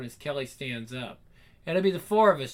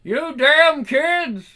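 slow, high, booming yell; angry yell; 10 semitones higher, 10 dB louder, much slower than usual. Acted. Father chasing off the couple, yelling angrily. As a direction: bellow it after fleeing kids. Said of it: "Someone is yelling things".

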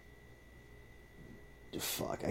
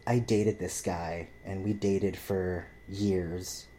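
drawn-out retelling; 4 dB quieter, much slower than usual. Retold or imitated. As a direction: imitate her with slow, stretched words. Retelling her sob story.

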